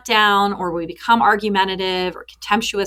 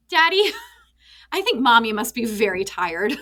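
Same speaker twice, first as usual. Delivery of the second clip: put-on half-laughing little boy voice; son's wise voice; 2 semitones higher than usual. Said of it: "He said".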